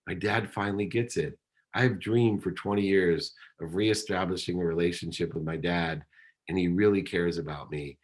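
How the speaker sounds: soft, choked-up quoting of himself; quietly through remembered tears; teary retelling. Retold or imitated. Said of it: "and I start to cry".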